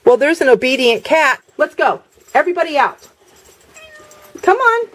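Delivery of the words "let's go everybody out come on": high coaxing call to the cat; calling pets. Real, not acted. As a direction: coax the cat out, pitched up.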